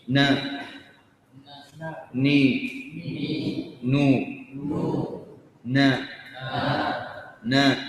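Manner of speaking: na, ni, nu with a ringing nasal hum; nasal syllable drill. Shown as a demonstration. Teacher drilling students on نا with nasal hum. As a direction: hold the نا نو ني in the nose. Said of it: "ويصاحبها غنة من الخيشوم".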